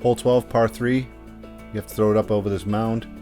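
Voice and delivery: hole preview voiceover; steady course walkthrough read; golf commentator. Acted. Recorded hole preview over music.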